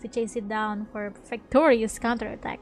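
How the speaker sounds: measured narrator voice; story narration. A narrator's reading. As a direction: tell the scene like a storyteller. Reads game narration.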